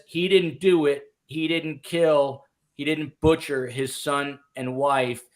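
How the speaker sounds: measured, hammering courtroom denial; emphatic. Retold or imitated. Reporter quoting the defense lawyer's opening, emphatic. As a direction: land each denial like a mic drop. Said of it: "dropped kind of the hammer, the mic drop moment".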